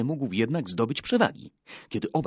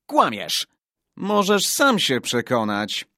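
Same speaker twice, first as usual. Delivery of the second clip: put-on raised, higher-pitched boyish retort; defiant challenge; 4 semitones higher, 6 dB louder, slower than usual. A narrator's reading. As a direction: dare the rival in a louder voice. Boys dispute the boast. (wyzywająco, podniesionym głosem)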